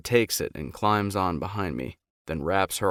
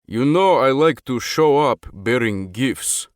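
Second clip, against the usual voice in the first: smiling; 5 semitones higher, 8 dB louder than usual. A narrator's reading. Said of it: "Dimitri smiles".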